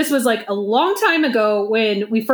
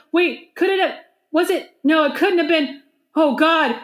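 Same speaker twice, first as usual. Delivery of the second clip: mildly panicked stammer, a bit higher; retold terror; 5 semitones higher than usual. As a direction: imitate a friend nervously working it out. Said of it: "the sheer terror in his voice".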